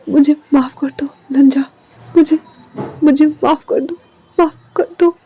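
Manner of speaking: fading, breaking plea for forgiveness; faint tearful begging; weak tearful plea. Acted. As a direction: beg with the last breath. Dying Wing begs forgiveness.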